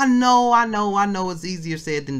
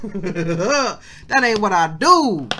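laughing; much slower than usual. Real, not acted.

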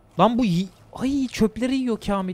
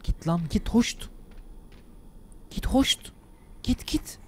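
hushed shooing; 8 dB quieter, slower than usual. Real, not acted. Hiding, shooing enemy.

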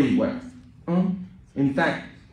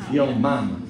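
put-on playful touch of US Southern accent; 3 dB louder than usual. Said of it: "That's my southern accent for you".

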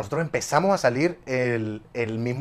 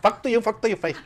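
laughing; 9 semitones higher than usual. Retold or imitated. Mock broken English insult, laughing.

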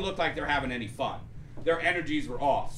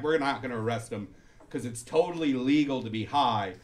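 low calm cop; 6 semitones lower, 4 dB quieter than usual. Retold or imitated. Police explaining law, voiced.

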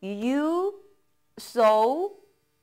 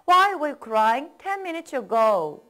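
slow, even drill pace; slow model reading; much slower than usual. Shown as a demonstration. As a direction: say it slowly, leave room to repeat. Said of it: "따라 읽어보세요".

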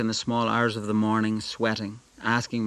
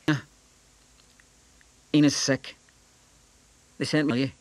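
urgent; 4 semitones higher than usual. A narrator's reading. Breathless boy blurts news.

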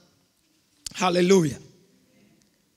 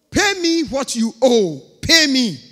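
a louder, slower creditor demanding his money; 2 semitones higher, 6 dB louder than usual. Acted. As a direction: bear down on him like a creditor at his throat. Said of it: "took him by the throat".

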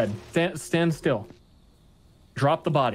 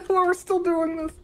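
laughing; 14 semitones higher than usual. Real, not acted. Laughing at the ongoing mess.

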